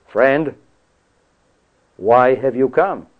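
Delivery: slow, measured, lightly sarcastic quote; mild sarcasm. Retold or imitated. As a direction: quote it slowly, a pointed pause after "Friend". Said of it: "with a little bit of, uh, sarcasm".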